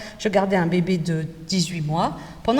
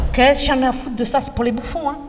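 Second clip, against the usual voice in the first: put-on defiant teen girl; 3 semitones higher than usual. Shown as a demonstration. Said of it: "la fille qui dit".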